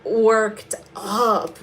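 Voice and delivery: slow, drawn-out admission of being worked up; worked up, dragging each word slowly; getting worked up. Real, not acted. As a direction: stretch out the words, getting worked up. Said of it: "I'm getting worked up".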